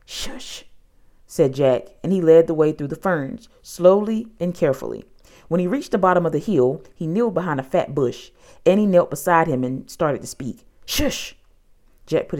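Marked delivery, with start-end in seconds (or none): 0.0-0.7 whispered shush; soft, voiceless warning hiss; hushing. A narrator's reading. Jack hushes his sister. 10.8-11.3 sharp whispered shush; urgent whispered hush. A narrator's reading. Jack hushes Annie near dinosaur.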